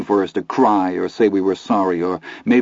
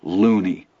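smug. Acted. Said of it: "Milo said smugly".

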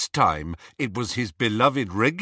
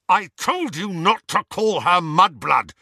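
snarled; 7 semitones higher, 5 dB louder than usual. Acted. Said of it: "snarled Harry".

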